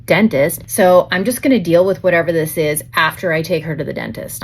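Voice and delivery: reliving the flustered rush, lightly; worried mom retelling her panic, half-hearted; retold panic. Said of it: "I'm starting to panic at this moment".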